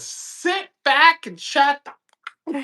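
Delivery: Bill's grumpy voice. Retold or imitated. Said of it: "you're just like this".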